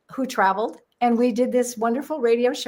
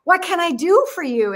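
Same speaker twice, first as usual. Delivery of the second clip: operator voice; 7 semitones higher, 4 dB louder than usual. Retold or imitated. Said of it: "he remembered me".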